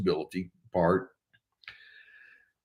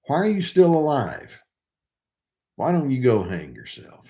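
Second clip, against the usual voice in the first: incredulous rereading; 3 semitones higher than usual. Retold or imitated. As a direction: reread it aloud, stunned by it. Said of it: "the narcissist said to me".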